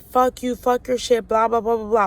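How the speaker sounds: half-hearted replay of cussing someone out; retold going off. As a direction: rattle off a retold tirade, mildly heated. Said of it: "And I was going off".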